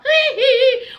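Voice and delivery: mock giggle. Mimics noise while mocking fedora.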